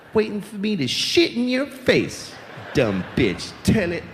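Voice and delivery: growling toilet monster rant, pitch jumping; pee noise voice. Pretend. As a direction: snarl insults like a strange creature while peeing. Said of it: "that's the noise I make when I pee".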